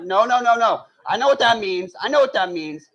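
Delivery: urgent rising no, no, no; panicked denial. Retold or imitated. Panicked refusal in retold exchange.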